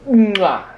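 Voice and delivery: loud smacking kiss; baby kisses. Pretend.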